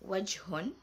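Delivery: "wajhun" with a clear breathy h; Arabic model word. Shown as a demonstration. Teacher modelling "wajhun" for students. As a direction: say "wajhun" slowly for the class. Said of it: "ha in".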